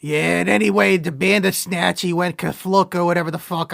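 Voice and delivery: lightly put-on working-guy line reading; Teamster voice. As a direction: read it like a bored Teamster off a script. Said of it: "my, uh, patented Teamster voice".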